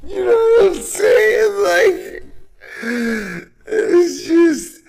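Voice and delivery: can't stop laughing at the idea; laughter breaking his voice up high. Real, not acted. Cracking up over absurd bond.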